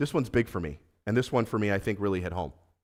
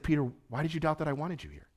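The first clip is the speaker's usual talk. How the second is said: softer, tender question to a doubting friend; gentle, non-accusatory; 3 semitones higher, 7 dB quieter than usual. Retold or imitated. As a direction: ask it softly, without any reproach. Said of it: "Not in this accusatory ... steamrolling over him".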